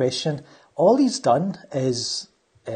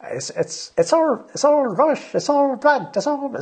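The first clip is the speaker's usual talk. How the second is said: bad Scottish accent; 12 semitones higher than usual. Mocking a YouTuber with a bad Scottish accent. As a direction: ham up a terrible Scottish accent. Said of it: "another really bad accent, Scottish accent".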